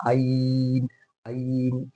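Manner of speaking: drawn-out आइन without the throat sound; wrong plain vowel. Shown as a demonstration. Teacher showing a mistake, long आइन with plain onset. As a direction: stretch आइन from an open throat. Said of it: "ये नहीं".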